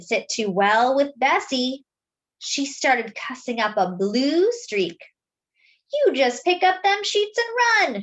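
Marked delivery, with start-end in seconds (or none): 5.9-8.0 hollered. A narrator's reading. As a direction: holler it at the riders. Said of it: "she hollered".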